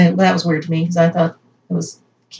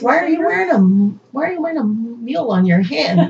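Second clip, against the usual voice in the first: laughing disbelief; 6 semitones higher than usual. Retold or imitated. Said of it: "I was like".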